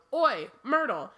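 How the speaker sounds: a lightly acted bellow; mild bellow. A narrator's reading. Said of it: "took a deep breath and bellowed".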